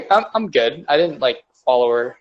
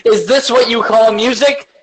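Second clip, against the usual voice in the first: higher, put-on snooty voice, looking down on the music; snobby music critic; 7 semitones higher, 4 dB louder than usual. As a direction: sneer at it like a record-store snob.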